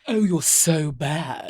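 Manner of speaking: slow, far-from-natural mock British accent; hammed-up British. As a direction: ham up a British character, drawn out. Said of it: "ham it up".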